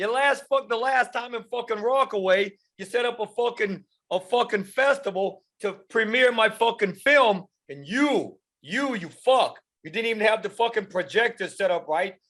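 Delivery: put-on, high-pitched New York accent. Prompted by another performer to do the New York accent, addressing someone: New York accent. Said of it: "Do the New York accent".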